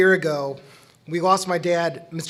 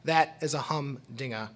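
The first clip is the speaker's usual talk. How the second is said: put-on thick Louisiana accent; 3 semitones lower, 6 dB quieter than usual. Son quoting dad's old teacher bestowing an H, Louisiana accent. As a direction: imitate a Louisiana accent, lower-key and softer. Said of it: "say in his thick Louisiana".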